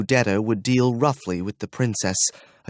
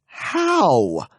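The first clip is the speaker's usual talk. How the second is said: poignant; 6 semitones higher than usual. Acted. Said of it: "spoke a single poignant word".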